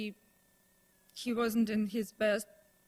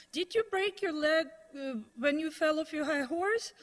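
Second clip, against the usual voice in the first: higher-pitched mock-offended jab; offended retort; 4 semitones higher than usual. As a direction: throw back an insult, acting out wounded pride. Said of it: "found it extremely offensive".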